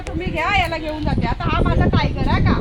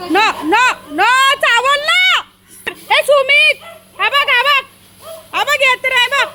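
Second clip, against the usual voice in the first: coaxing dog voice; 6 semitones higher, slower than usual. Real, not acted. Coaxing dogs, calling Sumit.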